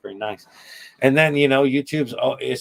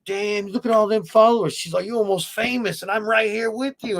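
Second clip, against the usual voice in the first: high-pitched mock fan lady, louder at the start; imitating a gushing lady; 11 semitones higher, 4 dB louder than usual. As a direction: put on a higher voice for an impressed lady.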